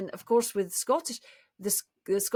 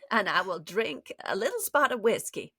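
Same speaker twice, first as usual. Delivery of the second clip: refined Southern American. Acted. Playing a lady taking whiskey, refined Southern accent.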